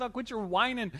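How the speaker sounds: scolding wife. Retold or imitated. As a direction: play the fed-up wife ordering him out. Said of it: "She says".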